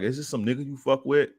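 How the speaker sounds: high-pitched accusing question; retold cursing. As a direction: act out an indignant accusation. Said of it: "cursing her, like".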